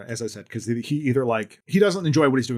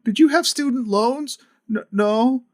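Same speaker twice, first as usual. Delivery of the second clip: chef's casual quiz; 7 semitones higher, 4 dB louder than usual. Retold or imitated. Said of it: "And he's like".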